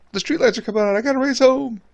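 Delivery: put-on high excited kid racing home; playing the little kid called in at dusk; mock kid voice.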